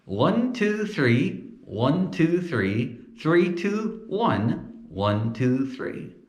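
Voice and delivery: lips still, jaw apart; counting without lips. Shown as a demonstration. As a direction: ventriloquist count. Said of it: "Let's give it a whirl".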